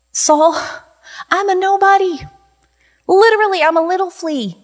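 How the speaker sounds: high-pitched plea of insignificance; humble pleading. Acted. Preacher voices David telling Saul he is just a flea, pleading. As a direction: plead as a harmless nobody.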